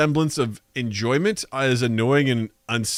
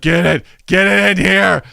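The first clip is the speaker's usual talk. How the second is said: greedy toilet voice; 4 semitones higher, 6 dB louder than usual. Pretend. Toilet demanding.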